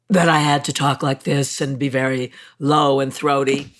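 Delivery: low and throaty, the voice Hawks demanded. Shown as a demonstration. Actress showing the voice she was made to use, low and throaty. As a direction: slip back into that throaty studio voice. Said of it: "Let me see if I can still do it".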